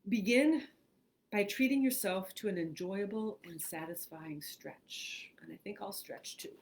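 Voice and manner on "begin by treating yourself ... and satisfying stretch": measured, clearly placed meditation reading; guided meditation. Acted. Host opens a mindfulness exercise for online listeners, guided meditation.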